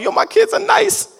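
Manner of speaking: put-on high, loud, bragging hype about the kids; proud hype cheer. Proud parent hyping his kids on the court, loud and high. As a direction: hype up your kids from the sideline. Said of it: "I was like".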